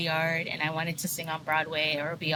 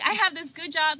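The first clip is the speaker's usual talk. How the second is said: retold worry; 9 semitones higher than usual. Retelling panicked thoughts.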